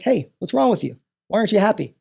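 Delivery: put-on concerned-adult questioning; adult addressing a child. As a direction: lightly mimic an adult pressing a child.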